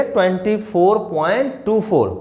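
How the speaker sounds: Twenty four point two four with two four said digit by digit; digits read singly. Shown as a demonstration. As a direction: read the decimal digits separately. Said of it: "ऐसे पढ़ा जाता है".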